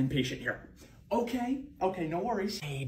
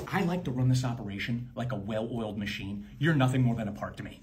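lower, flat mob-boss menace; cold boss; 5 semitones lower than usual. Acted. Manager telling Jake he is just a part, lightly lowered menace. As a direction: lean in like a mafia boss.

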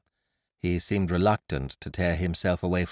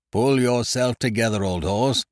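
loud, breezy and higher; a jolly bluff chap chattering on; hearty Ukridge; 4 semitones higher, 6 dB louder than usual. A narrator's reading. Ukridge telling his friend to remember a tune, hearty.

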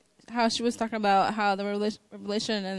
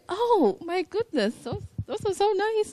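much higher, slow and gushing; excited mom; 10 semitones higher, slower than usual. Retold or imitated. Mom calling her daughter about scriptures, high delighted gush. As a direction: gush over the verses like a thrilled mother. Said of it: "And she's like".

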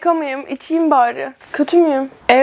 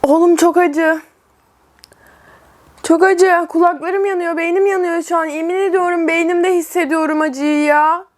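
higher, strained spicy pain; numb burning tongue; 4 semitones higher than usual. Real, not acted. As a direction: talk through a burning mouth. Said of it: "Dilim uyuşuyor lan".

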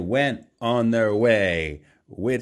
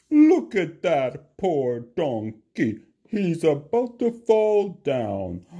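a higher scolding rider voice; 7 semitones higher than usual. A narrator's reading. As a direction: tell them off from the saddle.

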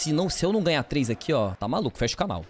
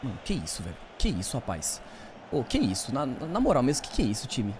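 quiet disbelief; 7 semitones lower, 6 dB quieter than usual. Real, not acted. Stunned by team's failure.

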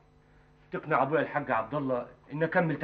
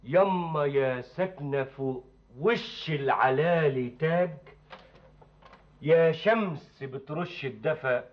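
poem in village dialect; slower than usual. Acted. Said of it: "اتكلم بالفلاحي".

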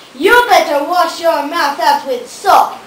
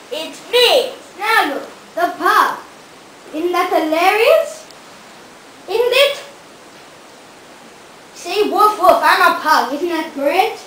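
a hint of a puppy voice, barely changed; lightly voiced seal pup; pup impression. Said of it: "impersonation of a pup".

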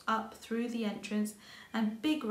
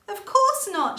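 laughing; 11 semitones higher, 12 dB louder than usual. A narrator's reading. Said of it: "she laughed".

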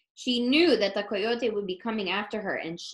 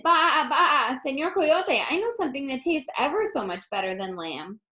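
bleating lamb; 3 semitones higher than usual. Acted. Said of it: "Borreguita bleated".

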